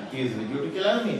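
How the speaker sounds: put-on quick line in a South Asian accent; family's South Asian accent. Son showing how mother might say it, South Asian accent. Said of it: "This is how my, my mother might say it".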